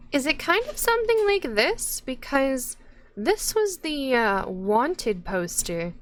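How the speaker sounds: high, lifted character voice; bright high-pitched innkeeper; npc voice. Acted.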